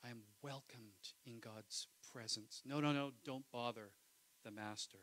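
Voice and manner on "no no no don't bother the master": mock dismissive disciples. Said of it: "it's like this".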